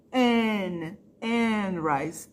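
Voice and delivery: Anne said as one short syllable, silent E; silent final E. Shown as a demonstration. Teacher showing students the silent E in Anne. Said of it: "essa letrinha não é pronunciada".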